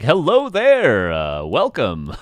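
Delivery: a slow put-on charm voice; mock caster voice. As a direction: ham up the announcer voice on a girl at the bar. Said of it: "I'm like".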